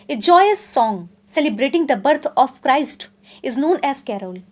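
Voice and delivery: slow, deliberate definition read for notes; slow dictation reading. Acted. Teacher dictating a definition to students, slow and deliberate. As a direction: spell it out slowly so students can write. Reads English definition slowly aloud.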